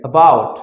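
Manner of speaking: "about" firm and loud, first "a" kept short; don't stretch the "a" of "about"; quick "uh" at the start of "about"; short vowel, undragged. Shown as a demonstration. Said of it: "আমি কিন্তু টান দিচ্ছি না".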